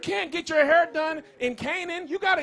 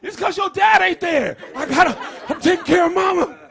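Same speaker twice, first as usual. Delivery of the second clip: louder, higher hammed-up sports dad shouting; mock coach dad yell; 4 semitones higher, 7 dB louder than usual. Sideline dad yelling at his son during games, mock shout. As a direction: bark at the kid like a sideline dad. Mocking fathers yelling at hooping sons.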